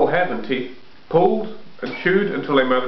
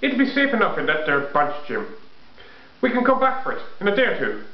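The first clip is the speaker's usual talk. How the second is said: rough voice; 6 semitones higher than usual. Acted. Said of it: "A rough voice said".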